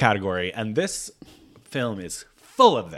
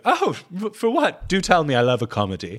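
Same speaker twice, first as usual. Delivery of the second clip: mock sarcastic put-down; 7 semitones higher, 4 dB louder than usual. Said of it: "she's like".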